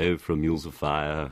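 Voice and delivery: a lightly voiced posh Queen's English; mock RP. A hint of Queen's English mocking RP speakers. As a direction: send up received pronunciation. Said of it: "received pronunciation".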